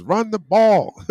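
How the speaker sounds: hammed-up reading of a fan's screamed post; reading a screamed comment. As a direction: belt out the viewer's all-caps comment, drawn out. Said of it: "That means you're screaming".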